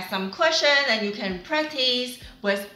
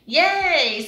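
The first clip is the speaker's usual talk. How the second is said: cheerful yay; 6 semitones higher, 6 dB louder than usual. Real, not acted. Teacher celebrates correct sentence.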